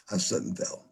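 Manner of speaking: unvoiced, whispered "I slipped and fell"; whispered excuse. Shown as a demonstration. Rehearsing the excuse for the boss, in a whisper.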